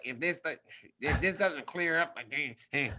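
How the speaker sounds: low, soft grumbling coach; coach Bob. Retold or imitated. Fighter imitating his worried coach, low grumble. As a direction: trail off into a low mumble. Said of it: "you know how Bob gets".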